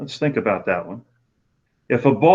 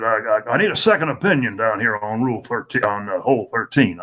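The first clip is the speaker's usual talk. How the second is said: put-on good old boy drawl. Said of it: "he talks like this".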